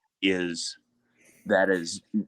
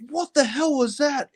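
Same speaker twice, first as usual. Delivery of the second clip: much higher mock dad voice, startled; dad's alarmed question. Dad on the phone hears crashes, high startled mock voice. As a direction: play the boss hearing the crash. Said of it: "And he's like".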